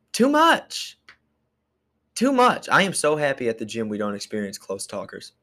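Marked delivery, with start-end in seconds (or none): 0.1-1.0 "Too much" squeaked very high in a put-on voice; mock squeal. Mock reaction to close talker. 2.1-2.7 "Too much" still pitched very high, a bit less squeaky; mock squeal again. Mock reaction repeated.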